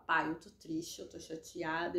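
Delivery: low, soft confiding in God; subdued, hushed admission of hurt; sad prayer. Retold or imitated. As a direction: retell a quiet, downcast prayer. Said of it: "eu chego pra Ele e falo".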